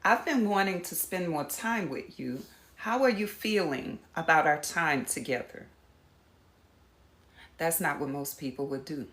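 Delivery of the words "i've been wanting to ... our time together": soft, gentle question; soft caring ask; gentle invitation. Shown as a demonstration. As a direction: invite them in kindly. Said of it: "Here's another one".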